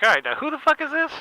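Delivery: high, loud, out-of-breath yell; winded angry shout. Retold or imitated. Brian winded from chasing his pigeon, shouting. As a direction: bark it out, winded from the chaos. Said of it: "He's like".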